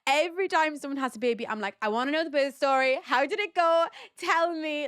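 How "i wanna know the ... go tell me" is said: high, excited demand for gossip; eager questioning. Acted. Mum begging a new mother for the birth story, eager and excited. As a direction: ask eagerly, pitched up and quickly. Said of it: "this is literally me".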